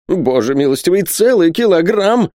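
high, stretched wail of dismay; aghast. Acted. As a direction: lament the huge weight in a soaring pitch. Miser aghast at the weight. (в ужасе, высоко и протяжно)

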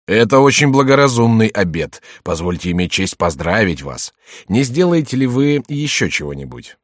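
mocking. Mocking congratulation to rival.

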